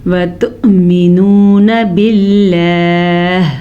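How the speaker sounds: slow melodic tajweed chanting; Quran recitation. Acted. Teacher reciting the verse slowly for students, melodic chant. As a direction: draw each verse out in measured recitation.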